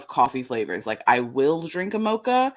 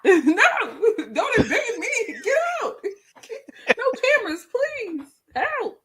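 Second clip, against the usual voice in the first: tiny voice. Pretend. Playing tiny shrunk self.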